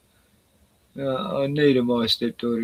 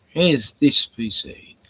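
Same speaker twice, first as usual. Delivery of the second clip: announcing; 6 dB louder, slower than usual. Real, not acted. Announcing the song found.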